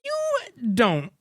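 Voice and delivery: slow, hushed parody of a menacing threat; mock the edgy threat, drawing it out; a light imitation of the co-owner's threat, slowly; mock edgy tough guy. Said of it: "why are we talking like this".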